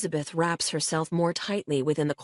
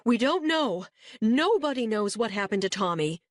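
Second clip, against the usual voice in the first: tearful, raised pitch pleading; crying mother; 6 semitones higher than usual. A narrator's reading. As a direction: plead through tears, voice high. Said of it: "Janice is crying again and says".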